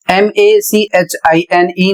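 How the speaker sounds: slow, letter by letter; spelling out. Shown as a demonstration. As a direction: spell it out slowly and evenly. Teacher spells out a word. (धीरे-धीरे एक-एक अक्षर)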